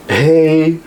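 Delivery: high, loud stretched "Hey"; mock flirty text.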